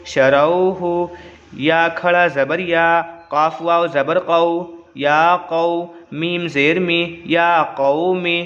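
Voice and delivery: slow, level-toned spelling chant; practice recitation. Shown as a demonstration. Teacher leading pupils in practice, slow even recitation. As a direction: spell each syllable evenly, then blend the word. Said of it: "चलिए मश्क कर लेते हैं".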